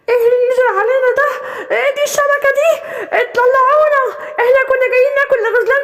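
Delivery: trapped panicking hyenas. Acted. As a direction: caught in the net, scrambling to get out. Hyenas trapped under the net.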